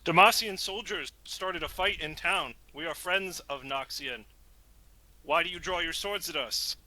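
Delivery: in-character Bao Sheng. Acted. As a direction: plead your innocence to armed soldiers. Player voices Bao Sheng to soldiers.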